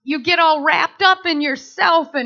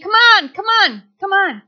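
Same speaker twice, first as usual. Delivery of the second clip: higher, louder beckoning call; 5 semitones higher, 4 dB louder than usual. Acted. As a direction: call someone in to shore. God calling from the shore.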